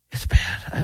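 unvoiced laughing whisper. Real, not acted. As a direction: whisper it, still amused.

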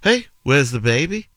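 put-on Scouse accent; Liverpool accent. Shown as a demonstration. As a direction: ask it like a Liverpudlian, pitch lifted. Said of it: "If you were in Liverpool".

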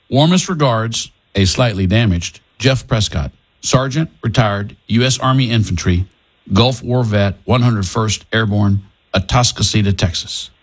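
measured radio read of the sign-off; on-air letter read. Acted. Third take of the sign-off for the show, measured. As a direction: read it out for the broadcast. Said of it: "Okay, here we go".

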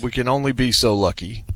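through gritted teeth; forced through clenched teeth. Real, not acted. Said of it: "I'm saying that through gritted teeth".

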